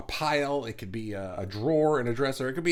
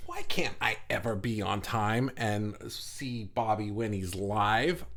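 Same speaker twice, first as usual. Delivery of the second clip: slow, lower self-reproach, played up; mock disappointment; 4 semitones lower, slower than usual. Host voices a replay viewer who missed the live, mock disappointed. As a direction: drag it out like a let-down latecomer. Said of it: "to express your disappointment in yourself".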